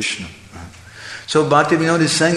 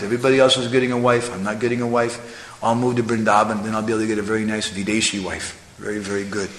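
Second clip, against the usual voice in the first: rushed, whiny brahmachari griping; a lightly voiced brahmachari grumbling about no wife; mock complaining; 3 semitones lower, 3 dB quieter, faster than usual. Brahmachari jealous of married men, mock complaining. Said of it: "he complains".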